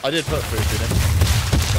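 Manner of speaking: sudden slow shout to startle; jump-scare your friend with a yell; startling boo. Acted. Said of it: "Did I scare you a little bit there".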